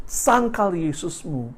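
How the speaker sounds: slow, drawn-out retold command; mildly angry order, each word stretched; angry demand. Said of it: "mereka begitu marah sekali".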